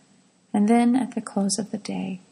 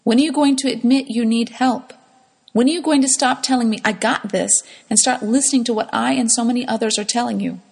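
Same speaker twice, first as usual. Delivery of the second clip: louder, faster, pushing exasperated questions; angry scolding; 3 semitones higher, 6 dB louder, faster than usual. Retold or imitated. Mother berating her child, faster and louder. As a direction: press the child with one exasperated question after another.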